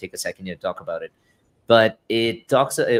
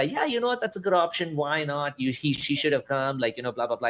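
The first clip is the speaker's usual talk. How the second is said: mock justifying; 4 semitones higher, 3 dB quieter than usual. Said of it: "everybody can justify".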